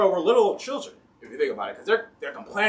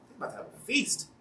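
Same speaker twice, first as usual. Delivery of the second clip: whispered aside; 6 semitones higher, 9 dB quieter, faster than usual. Real, not acted.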